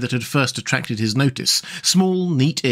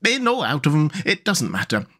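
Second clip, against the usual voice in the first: higher, composed animal character; easygoing, lilting higher voice; Rat; 6 semitones higher than usual. Acted. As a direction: chat on happily, unruffled. The Rat's speech to Mole.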